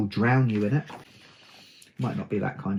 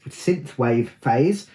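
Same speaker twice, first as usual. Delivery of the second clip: slow careful synthwave; much slower than usual. Real, not acted. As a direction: spell out synthwave slowly. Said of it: "That's hard to say".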